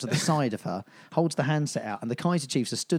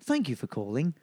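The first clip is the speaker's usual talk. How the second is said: phone menu voice; 3 semitones higher than usual. Shown as a demonstration. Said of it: "making on hold music".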